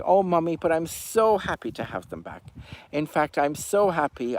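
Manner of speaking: Albert gushing to Henny; fake happy cuckoo. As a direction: gush sweetly to fool Mummy. Albert fakes joy to Henny.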